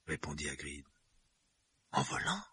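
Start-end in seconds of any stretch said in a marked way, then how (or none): 1.9-2.4 high, disbelieving echo; astonished. A narrator's reading. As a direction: repeat it in disbelief.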